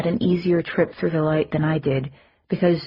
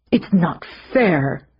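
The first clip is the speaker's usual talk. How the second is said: a hint of sulky whining, slower; petulant; slower than usual. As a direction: complain like a denied child. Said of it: "just the petulance of a man".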